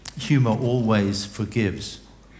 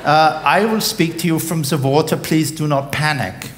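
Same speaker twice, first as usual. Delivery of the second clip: higher, louder pilot on the speaker; captain over the cabin speaker; captain's announcement; 6 semitones higher, 4 dB louder than usual. Acted. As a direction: address the passengers like an airline captain. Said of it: "the captain's voice came over the speaker".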